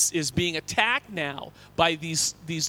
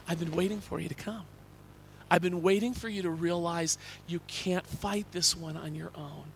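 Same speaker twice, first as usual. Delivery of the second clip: soft, gentle reassurance; God comforting a weeping pastor, softly; tender voice of God; 5 dB quieter than usual. Retold or imitated. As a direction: speak it like an embrace. God's gentle reply retold.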